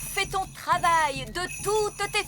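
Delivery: slow, drawn-out magic chant; a fairy summoning the wind, unhurried; spell incantation. Acted. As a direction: intone the spell slowly, word by word. Fairy nanny casting wind spell.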